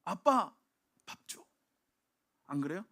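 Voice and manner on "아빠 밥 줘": put-on child calling dad. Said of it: "뭐라고 얘기합니까".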